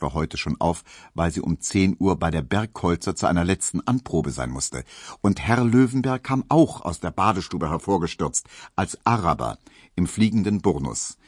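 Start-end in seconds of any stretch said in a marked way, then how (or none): none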